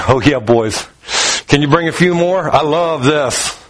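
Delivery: low, relaxed delight; pleased Jesus. Retold or imitated. Jesus welcoming the friends, low and pleased.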